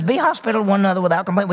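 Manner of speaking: rattled off quickly, second time through; quick repeat. Shown as a demonstration. Preacher repeating the verse quickly to his congregation. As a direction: rush the verse out fast like a quick reminder. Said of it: "He says".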